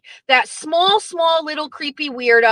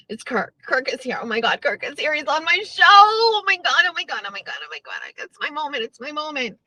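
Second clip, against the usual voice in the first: mock giddy fanboy, softer and breathless; giddy schoolgirl; 3 dB quieter, faster than usual. Mocking Menners gushing that Kirk is on his show, giddy. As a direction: gush like a starstruck schoolgirl. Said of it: "giddy and excited, like a schoolgirl".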